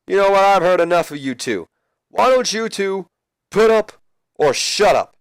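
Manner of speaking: high, loud shouting challenge; angry yell. Retold or imitated. Ric Flair shouting at the two rivals, loud and high. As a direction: bark at them to put up.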